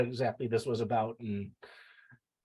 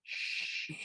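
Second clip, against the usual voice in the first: joking shush; 10 dB quieter than usual. Real, not acted. Joking shush about the household.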